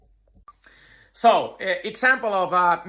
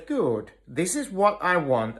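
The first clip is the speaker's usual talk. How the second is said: soft, settled praise, softer than the talk; calm praise; 4 dB quieter than usual. Shown as a demonstration. Trainer releasing his grip on the calmed dog, calm soft praise. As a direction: reward the now-calm dog quietly. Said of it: "my emotions are very calm".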